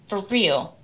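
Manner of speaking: ordinary delivery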